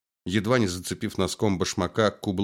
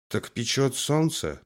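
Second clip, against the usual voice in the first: puffing; 5 semitones higher, slower than usual. Acted. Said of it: "отдуваясь".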